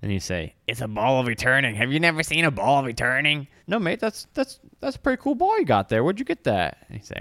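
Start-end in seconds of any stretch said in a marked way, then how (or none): 0.7-3.5 mimicked player voice. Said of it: "I'm gonna mimic your voice for you". 3.7-6.8 very high, quick squeaky companion. Acted. GM voices Caleb, excited creature.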